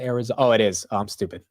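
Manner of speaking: ordinary talk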